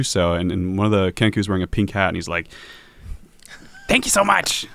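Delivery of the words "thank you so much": high squeaky little bird voice. Acted. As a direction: squeak it out, tiny and grateful. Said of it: "he says in, in a squeaky voice".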